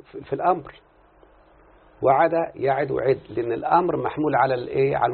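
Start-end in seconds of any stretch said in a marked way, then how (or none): 2.0-3.2 1 slow conjugation recital. Shown as a demonstration. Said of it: "انتبه".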